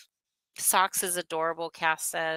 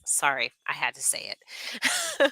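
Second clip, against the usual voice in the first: whispered apology; 2 semitones lower, slower than usual. Real, not acted. Whispered apology after the insult.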